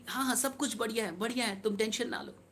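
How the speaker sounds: softly retold maternal reassurance; reassuring mother. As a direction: voice a mother gently soothing, softly. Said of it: "अम्मी कहीं कि".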